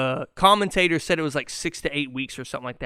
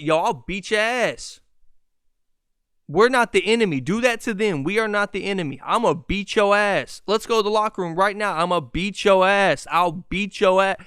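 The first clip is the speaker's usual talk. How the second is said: raised, higher voice breaking up a fight; imitating a heated vet; 4 semitones higher, 5 dB louder than usual. Haslem stepping between teammates, mock yelling threats. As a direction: play the veteran yelling at both teammates. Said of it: "Udonis Haslem gets in the middle".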